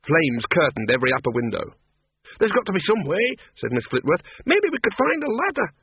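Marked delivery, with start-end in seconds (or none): 2.4-3.3 put-on high, pressing old woman voice; urgent woman. Miss Flitworth argues with Bill, high and urgent. 4.4-5.7 put-on high, pressing old woman voice; urgent woman. Miss Flitworth argues with Bill, high and urgent.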